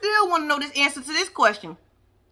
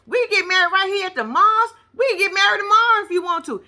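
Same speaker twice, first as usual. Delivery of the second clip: higher, pushy mock Muhammad demanding his green card; imitating Muhammad; 5 semitones higher than usual. Host mimics Muhammad demanding a green card, hammed-up pleading. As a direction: play him whining that he only wants the card. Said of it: "Muhammad said".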